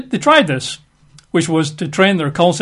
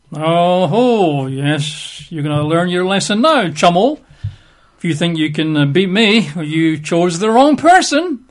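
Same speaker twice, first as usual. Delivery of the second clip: retaliating. Acted. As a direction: play at threatening someone who crossed you. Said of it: "not trying to get back".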